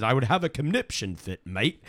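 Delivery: put-on half-hearted Australian accent; lightly faked Australian twang; bad Australian accent. Radio host quoting an angry listener, bad Australian accent. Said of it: "that's a pretty bad Australian accent".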